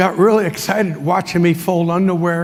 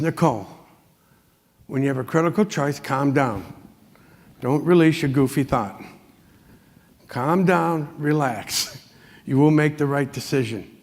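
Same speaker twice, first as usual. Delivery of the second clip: lower, softer, steady reassurance; calm positive voice; 5 semitones lower, 4 dB quieter than usual. Retold or imitated. Rudy calming an overexcited Nicole on the phone, soothing. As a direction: settle her down gently. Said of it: "in a positive voice".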